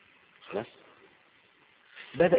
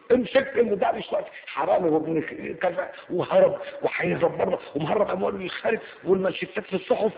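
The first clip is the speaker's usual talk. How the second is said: mock prosecutor outrage; 5 semitones higher, 3 dB louder than usual. Mocking prosecutor and headlines.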